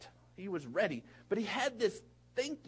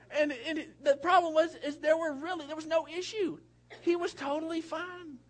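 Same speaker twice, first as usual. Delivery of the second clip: laughing; 8 semitones higher than usual. Real, not acted. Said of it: "I laugh at so many inappropriate things".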